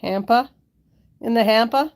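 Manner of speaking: Boston accent with the R dropped; tentative Boston accent, as a question. Shown as a demonstration. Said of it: "was that the Boston accent".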